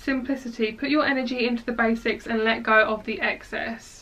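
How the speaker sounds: normal talking voice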